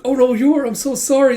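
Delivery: high, loud mock panic; panicked apology. Brother has hurt his sister, frantic apology.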